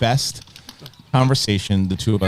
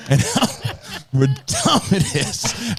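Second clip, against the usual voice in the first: high, imitated hysterical laughing rant; mock outrage breaking into laughter; laughing but angry; 13 semitones higher, slower than usual. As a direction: squeeze the words out through angry laughter. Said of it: "he starts laughing, just hysterically, but still angry".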